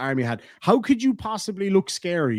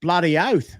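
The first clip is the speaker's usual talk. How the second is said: put-on Australian accent; 2 semitones higher, 3 dB louder than usual. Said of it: "Gotta rock the Akubra when the Australians are here".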